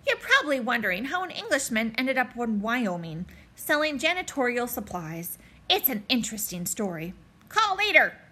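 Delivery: a lightly voiced chipper English accent. English cleaning salesman greeting the principal in a light, chipper English accent. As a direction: play a cheerful English salesman. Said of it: "a chipper English accent".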